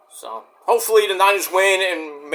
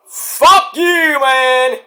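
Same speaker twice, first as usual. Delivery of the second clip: mock insult; 8 semitones higher, 6 dB louder, much slower than usual. Mock outro insult to haters.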